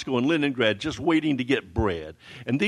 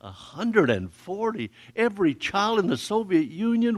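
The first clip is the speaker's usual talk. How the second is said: stunned question; 6 semitones higher than usual. Retold or imitated. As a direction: let the number sink in, amazed. Repeating the huge number.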